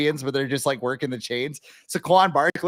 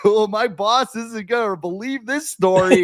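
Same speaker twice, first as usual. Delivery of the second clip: higher-pitched sideline guy bragging; excited storyteller; 7 semitones higher than usual. Acted. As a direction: play a guy eager to tell his boss. Acted sideline guy telling his story.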